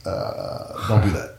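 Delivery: hesitant, softened mock disapproval; imitating disapproving family. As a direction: balk quietly, as imitated relatives. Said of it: "my family was like".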